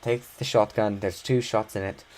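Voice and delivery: a light attempt at an Irish accent, not far from his own voice; half-hearted Irish accent for the father. Father urging his son into the closet, light Irish accent. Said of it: "That's my best attempt at an Irish accent".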